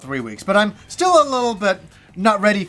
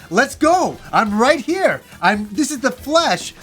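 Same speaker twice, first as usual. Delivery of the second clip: raised, emphatic retold dare; fighting challenge; 4 semitones higher than usual. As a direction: square up to him verbally.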